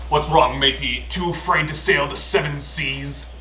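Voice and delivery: lightly voiced pirate; hint of a swaggering pirate. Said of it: "So you talk like a pirate now?".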